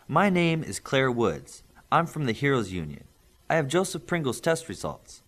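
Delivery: a hint of a brisk official; official visitor. Visitor introducing herself to the family, lightly voiced.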